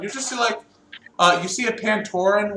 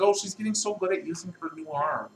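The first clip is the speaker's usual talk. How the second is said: doting; 7 dB quieter than usual. Acted. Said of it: "the Tails guy says".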